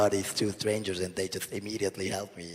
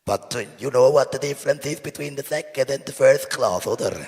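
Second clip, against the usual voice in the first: loud, higher-pitched mock Swiss German accent; accent fédéral; 6 semitones higher, 10 dB louder than usual. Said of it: "he does the accent fédéral".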